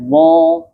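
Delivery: "wo" said high with rounded lips; wrong rounded wo. Shown as a demonstration. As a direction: show the mistake "wo" with pursed lips. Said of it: "itu jangan wo".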